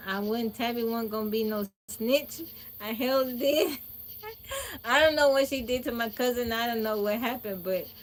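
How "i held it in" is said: teary, ending in a high broken sob-laugh; holding back tears. Real, not acted. Woman recalling her aunt's interrogation, real tears. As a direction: fight the tears and lose a little. Tearful telling her childhood story.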